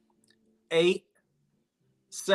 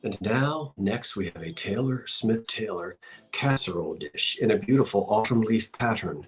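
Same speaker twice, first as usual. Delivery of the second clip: Ken Burns; 5 semitones lower than usual. Retold or imitated. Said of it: "I was thinking Ken Burns".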